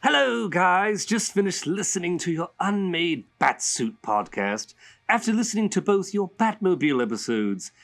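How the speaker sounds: a hint of a playful villain reading a letter; Joker voice. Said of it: "I'm gonna say it in Joker's voice".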